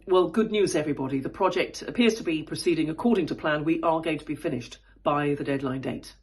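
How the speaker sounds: grounded low voice for the update. Shown as a demonstration. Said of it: "Or if I say".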